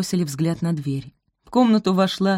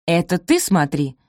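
retorting; 4 dB louder than usual. Acted. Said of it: "отрезала Пози".

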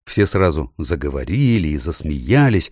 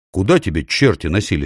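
ordinary delivery

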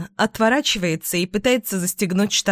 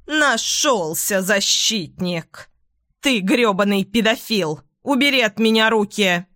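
understated furious yell; a touch of screaming rage; mother yelling at Tom, a mild mock yell. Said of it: "орёт".

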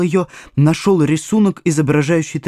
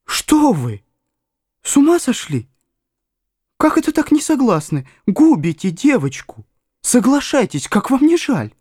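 much higher, urgent pleading voice; as if someone else speaks through you; doctor pressing the mother, in an unfamiliar high voice; a stranger's voice; 10 semitones higher than usual. A narrator's reading. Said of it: "чужим голосом вымолвил".

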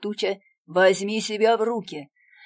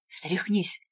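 тихо. A narrator's reading. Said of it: "говорит Раннер, пихая меня в рёбра".

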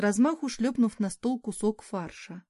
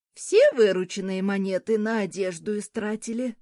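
displeased grumble; 5 dB louder than usual. Acted. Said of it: "недовольно буркнула женщина".

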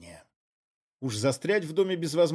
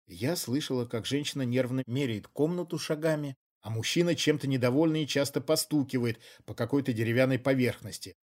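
ordinary delivery

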